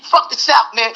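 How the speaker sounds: lightly voiced cocky New Yorker; a hint of hammed-up New York swagger; mock New York dude. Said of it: "dude with his hat to the side talking".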